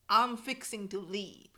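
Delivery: slow Texan "I'm fixing to leave"; Southern drawl. Shown as a demonstration. Teaching a Texan phrase, slow Southern drawl. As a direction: stretch it out the Texas way. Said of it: "フィクシングって言うんだけど".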